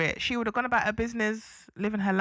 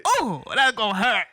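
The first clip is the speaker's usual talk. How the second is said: louder mock ouch; mock wince; 6 dB louder than usual. Co-host retelling her reaction to the burn, loud mock wince. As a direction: react like you felt the burn. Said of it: "I was like".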